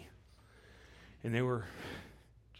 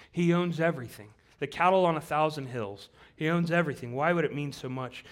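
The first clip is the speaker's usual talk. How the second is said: emphatic preaching; 6 semitones higher, 8 dB louder than usual. Real, not acted.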